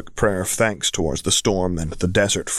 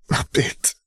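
breathy gasp. Acted. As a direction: gasp the words out. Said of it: "Tyrion gasped out".

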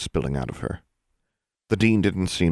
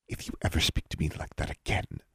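icily; 8 dB quieter than usual. A narrator's reading. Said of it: "Lilith said icily".

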